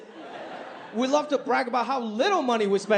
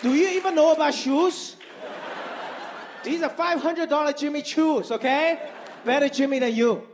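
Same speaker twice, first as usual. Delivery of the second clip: offended mom; 4 semitones higher than usual. Retold or imitated. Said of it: "She was like".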